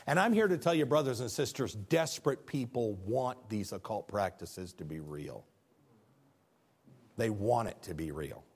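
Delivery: low intense preaching. Real, not acted. Preacher confides to brothers and sisters, low and soft. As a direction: pull them close and press it home. Drops voice to congregation.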